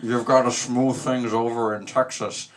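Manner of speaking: gravelly politician impression; gravel-throated LBJ. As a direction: talk through a throat full of gravel. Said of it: "He had so much gravel in his throat".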